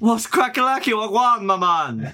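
high, hammed-up slang greeting; spirit voice. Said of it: "that's your spirit voice".

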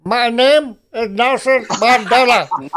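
slow, lightly put-on Mandela voice; a slow hint of Mandela; Nelson Mandela impression. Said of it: "I can do Nelson Mandela".

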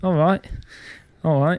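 repeated mock British catchphrase; British accent. Shown as a demonstration. Host leans on his one British accent phrase. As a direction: lightly put on a British accent. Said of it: "I always lean on that".

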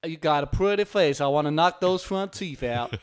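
put-on menacing bail jumper; hammed-up outlaw voice; fugitive's voice. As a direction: play the outlaw's threat, a little loud. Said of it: "he's like, he's like".

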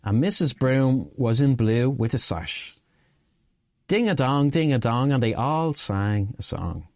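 lilting verse read with a gentle bounce; sing-song poem reading. Acted. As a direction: read it like a nursery rhyme for listeners. Reads a sing-song poem aloud.

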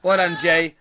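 loud, amused teasing; laughing praise. Real, not acted. Host to Jay on his moderating, loud and laughing. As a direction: congratulate him loudly through laughter.

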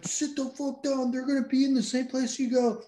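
high mock command, slowed at first; hammed-up soldier ordering him down; stern soldier order. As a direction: bark it as a soldier telling him to sit. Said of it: "they're like".

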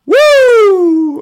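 a very high, loud surfer whoop; surfer woo. Retold or imitated. Ex-meth user describing the high with a high, loud surfer woo. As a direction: let out a wild surfer cheer. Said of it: "he did the little surfer".

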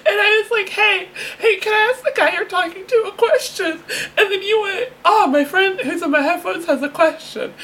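high voice bubbling with laughter; laughing retelling. Real, not acted. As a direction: giggle your way through the story. Giggling through her retold prank.

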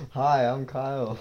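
lightly voiced camp caricature; hint of a camp impression of a friend; Kyle. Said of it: "Kyle, but gay".

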